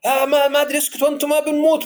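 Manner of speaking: a dad losing his cool in the desert, voice shooting up; panicky father. Retold or imitated. Panicking father stranded with kids. (أب مرتبك يصرخ على عياله بصوت عالي الطبقة)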